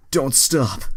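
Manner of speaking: high, loud acted yell. Kieran shouting at Troy, a high hammed-up yell. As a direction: belt it out. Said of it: "Kieran yells".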